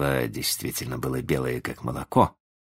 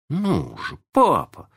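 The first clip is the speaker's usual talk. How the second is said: put-on high-pitched boy hurrying someone up; impatient urging; 11 semitones higher, slower than usual. A narrator's reading. Son hurrying his stalling father, high and impatient. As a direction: urge him on, pitch jumping up. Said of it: "торопил его Джон".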